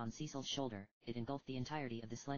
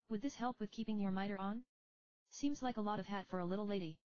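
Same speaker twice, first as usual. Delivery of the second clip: put-on higher, tired young heroine; young woman voice; 8 semitones higher than usual. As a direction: speak as a weary young summoner. Rydia teasing kindly.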